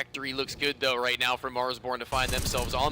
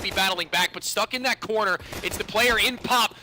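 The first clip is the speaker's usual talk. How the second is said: excited; 7 semitones higher, 5 dB louder than usual. Real, not acted. Caster hyping a triple kill.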